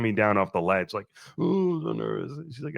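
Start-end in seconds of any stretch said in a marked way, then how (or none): 1.4-2.3 high, breathy-sounding put-on fret; higher, mock-jittery little voice; mock nervous groom. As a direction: play up the nerves in a silly high voice. Mocking his own nerves to photographer.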